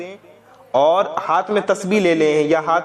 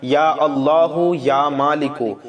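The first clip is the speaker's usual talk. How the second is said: slow, drawn-out invocation of God's names; slow prayerful invocation; dhikr recitation; 2 semitones lower, slower than usual. Shown as a demonstration. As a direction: chant the names slowly and devoutly. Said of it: "ورد کرنا ہے".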